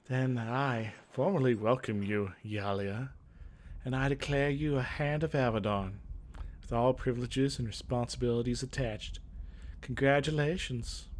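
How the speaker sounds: a hint of a commanding older mage, measured and official; formal mage leader. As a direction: welcome the new recruit with ceremonial gravity, lightly voiced. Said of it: "What's a good voice for Miranda?".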